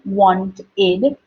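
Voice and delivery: wanted, ending sounded as id. Shown as a demonstration. Teacher demonstrating wanted to pupils, clear id ending. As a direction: say wanted with a clear extra syllable. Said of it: "the sound of the word is wanted".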